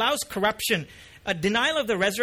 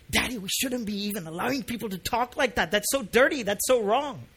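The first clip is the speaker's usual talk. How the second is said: daughter's appalled reaction. Retold or imitated. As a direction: lightly mimic a child protesting to Daddy. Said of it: "I just love my daughter's reaction".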